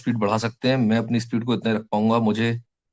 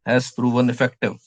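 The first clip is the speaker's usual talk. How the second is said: words stretched out slowly for note-taking; slow dictation; much slower than usual. Shown as a demonstration. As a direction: spell it out slowly for the class to write. (धीरे-धीरे लिखवाना)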